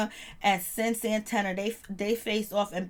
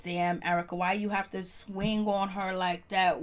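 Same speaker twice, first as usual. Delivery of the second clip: hyped reaction; slower than usual. Retold or imitated. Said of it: "I was like".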